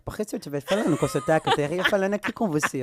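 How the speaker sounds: put-on loud French-accented Portuguese; comic protest with a French accent. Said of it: "comecei a falar com sotaque com ela".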